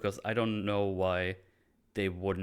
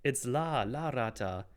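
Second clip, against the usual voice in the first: higher correcting sneer; Penguin voice; 4 semitones higher, slower than usual. Retold or imitated. Penguin corrects the Spanish, a hint of sneer. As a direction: correct them with disdain. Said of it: "It's like".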